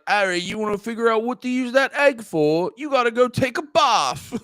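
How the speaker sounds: hammy British wizard-school voice; mock British accent. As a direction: put on a British film accent. Acting out film character advising Harry.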